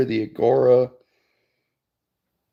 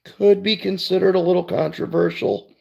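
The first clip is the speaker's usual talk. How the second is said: daughter voice; 7 semitones higher than usual. Retold or imitated. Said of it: "she's like".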